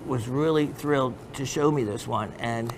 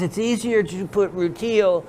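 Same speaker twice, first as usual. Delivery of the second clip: higher-pitched Pakistani dealer impression; put-on Pakistani dealer accent, pitched up; imitated Pakistani accent; 5 semitones higher, 4 dB louder than usual. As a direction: explain it in a lightly mimicked Pakistani accent. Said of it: "So he goes".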